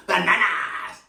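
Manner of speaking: crazy banana voice. Shown as a demonstration. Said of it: "a voice for the banana".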